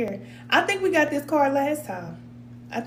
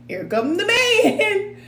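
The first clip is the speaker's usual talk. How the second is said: slow mock dread; 9 semitones higher, 4 dB louder, much slower than usual.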